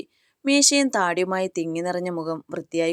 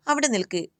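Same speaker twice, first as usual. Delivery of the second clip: calling out stop; 6 semitones higher than usual. Acted. Father stops Akash going upstairs.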